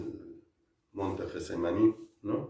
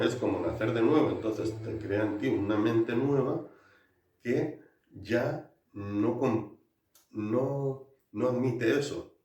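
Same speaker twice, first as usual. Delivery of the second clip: fervent preaching; 4 semitones higher, 4 dB louder than usual. Real, not acted. Preaching emphasis rising.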